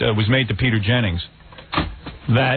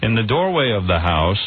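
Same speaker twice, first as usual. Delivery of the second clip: Peter Jennings. Acted. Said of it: "me as Peter Jennings".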